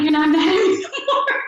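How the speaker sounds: laughing hopeful question. Retold or imitated. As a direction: ask it through a laugh, relieved.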